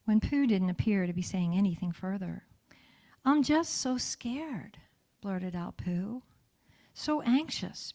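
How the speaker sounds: gentle story reading with voiced characters; storybook reading. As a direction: read tenderly to the inner child. Reads Winnie the Pooh aloud.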